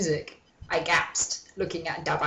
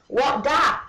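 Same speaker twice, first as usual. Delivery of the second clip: high, loud startled cry; mock yell; 8 semitones higher, 5 dB louder than usual. A narrator's reading. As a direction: yelp it like a startled janitor. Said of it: "he yelled".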